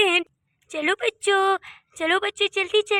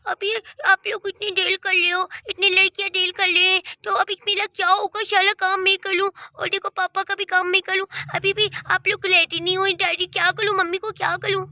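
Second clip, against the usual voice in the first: a lightly voiced small grandson, slightly raised pitch; छोटा पोता; 2 semitones higher than usual. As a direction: play a little boy fretting to his elders. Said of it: "मेरा प्यारा पोता". (छोटे बच्चे जैसी आवाज़)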